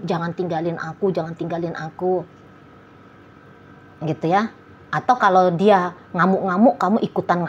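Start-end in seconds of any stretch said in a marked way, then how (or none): 0.0-2.3 soft, half-hearted begging, a bit softer; lightly imitating a clingy plea not to be left; mock pleading. Partner pleading softly so they are not left. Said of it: "kamu memohon-mohon".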